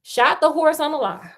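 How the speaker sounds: fairy tale read out with emphasis; story narration. A narrator's reading. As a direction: tell it like a lively storyteller. Reads the fairy tale aloud.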